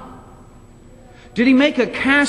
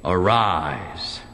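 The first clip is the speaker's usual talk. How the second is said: solemn command; 4 semitones lower than usual. Retold or imitated. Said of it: "And he said".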